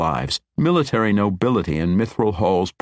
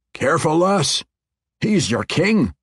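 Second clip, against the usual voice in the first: higher, a mild stern warning; 10 semitones higher, 4 dB louder than usual. Acted. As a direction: caution her, firmly. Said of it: "Bungalow Thump warned".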